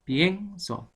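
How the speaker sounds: demonstrative "Pienso", weight on "pien"; stressed E in pienso. Shown as a demonstration. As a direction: lean on the E of "Pienso", then drop on "so". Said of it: "Es la E".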